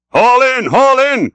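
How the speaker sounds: high, loud urgent command; cried. A narrator's reading. Stubb ordering the bowsman to haul in, loud cry. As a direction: punch each haul as an order. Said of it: "cried Stubb to the bowsman".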